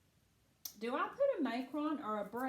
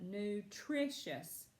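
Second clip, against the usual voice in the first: "Nutritious" said slowly, second syllable stressed; much slower than usual. Shown as a demonstration. Teacher helping a student hear the accent in Nutritious, stress on second syllable. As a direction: stretch out "Nutritious" so the middle syllable stands out. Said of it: "it is that second syllable".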